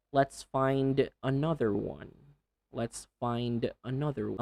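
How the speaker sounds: careful, slightly spaced "let's find another one"; measured practice pace; slowed down. Shown as a demonstration. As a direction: take it unhurried, each word fully ended. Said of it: "slow down when needed".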